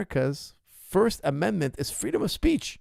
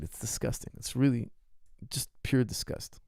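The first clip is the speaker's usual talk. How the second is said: disgusted; 3 semitones lower, 6 dB quieter than usual. Real, not acted. Disgust at vegan influencer.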